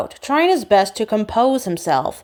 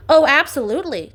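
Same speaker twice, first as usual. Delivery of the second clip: chiming in; 6 semitones higher than usual. A narrator's reading. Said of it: "Charlie chimes in".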